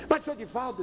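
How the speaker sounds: high, pleading man's voice; pleading father. Retold or imitated. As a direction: beg him as the anxious father. Father protests again.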